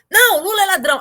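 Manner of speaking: loud parroted outburst; imitated ranting heckler. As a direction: blurt it like a worn-out slogan. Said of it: "aquele disco arranhado".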